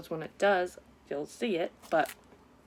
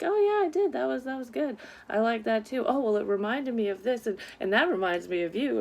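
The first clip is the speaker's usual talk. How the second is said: chatty, rambling voice; 6 semitones higher than usual. Retold or imitated. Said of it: "it's like".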